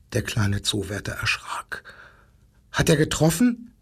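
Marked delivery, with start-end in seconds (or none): 2.7-3.7 dismayed. A narrator's reading. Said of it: "fragte er bestürzt".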